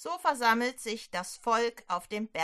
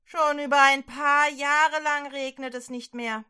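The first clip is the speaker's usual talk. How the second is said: louder, anxious king voice; complaining king; 3 semitones higher, 6 dB louder than usual. Acted. King Ahab complains about drought and the prophet, loud fretting. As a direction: wring your hands over the drought as the king. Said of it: "stöhnt der König".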